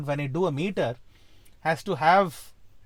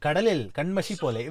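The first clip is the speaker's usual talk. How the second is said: quick spoken line in its native tune; natural spoken intonation; 2 semitones lower, much faster than usual. Shown as a demonstration. Composer showing how they've said it, quick recital. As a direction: recite it briskly as everyday speech. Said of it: "that's how they've said it".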